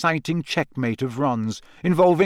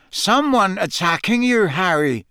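higher-pitched groggy question; sleepily; 6 semitones higher, 3 dB louder than usual. A narrator's reading. Seamus woken by Harry's yell, sleepily. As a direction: ask as if just woken. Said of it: "Seamus asked sleepily".

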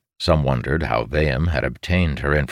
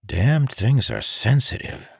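lamenting; 9 semitones higher than usual. A narrator's reading.

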